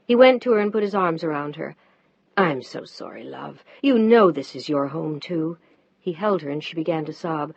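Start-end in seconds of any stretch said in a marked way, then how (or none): 2.3-5.6 low tender reassurance; kinder. Acted. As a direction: comfort her gently. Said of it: "His voice was kinder now".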